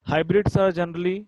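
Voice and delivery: drawn-out classroom read-aloud; slow dictation. Shown as a demonstration. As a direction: slowly read out the exam question. Teacher rereading exercise question.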